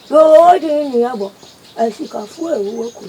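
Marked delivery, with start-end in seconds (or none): 0.1-1.3 loud call. Acted.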